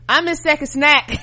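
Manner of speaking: mock pouting; attitude. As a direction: sulk it out with attitude. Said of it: "people got attitude like".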